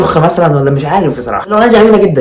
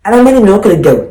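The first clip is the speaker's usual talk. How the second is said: exasperated shout; 3 semitones higher than usual. Real, not acted. Exasperated rant.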